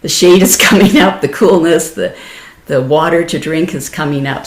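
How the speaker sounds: a touch of hammed-up glee; mock excitement. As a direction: play an eager kid about to get a treat. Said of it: "this excitement".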